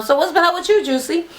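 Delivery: high, sweet, fake-friendly voice; sugary put-on twin voice; twin's sly question. Twin needling Juicy at dinner, sugary high voice. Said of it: "one of them was like".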